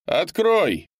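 freezing man outside begging to be let in; desperate shouting man. A narrator's reading. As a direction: pound on the door with your voice. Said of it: "раздался голос Леонардо".

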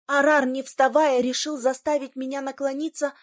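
usual speaking voice

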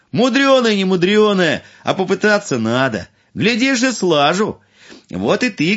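high, loud cheerful fool; bold young fool. Acted. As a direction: answer boldly and brightly. Fool answers boldly.

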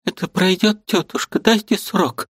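put-on a girl hiding her tears. A narrator's reading. Liza reassures aunt.

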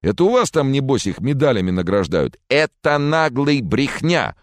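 high, loud indignant roar; furious roar. Acted. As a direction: roar your outrage at the accusers. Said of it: "взревел араб".

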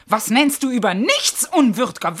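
rising, insistent angry questions; angry repeated challenge. Acted. Karis throwing his word back at him, angry. Wife quarrels with husband.

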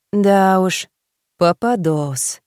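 slow sighing drop. A narrator's reading. Friend sighs at the sad news, slow sighing drop. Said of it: "вздохнула Юля".

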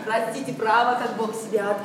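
laughing apology. Acted. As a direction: apologise through giggles you can't stop. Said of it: "этот смех дурацкий". (сквозь смех извиняясь, тише)

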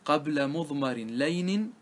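slow, measured chant of the line; slow recitation of a grammar poem; verse recitation. Shown as a demonstration. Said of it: "reciting verse".

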